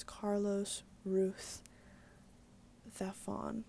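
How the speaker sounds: "Ruth Zafón" with each Z said as a soft TH; Spanish lisped Z. Shown as a demonstration. Correcting herself on an author's name, "Ruth Zafón" with TH for Z. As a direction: slowly show "Ruth Zafón" with TH sounds for Z. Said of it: "pronounce the Z like a, like a T H".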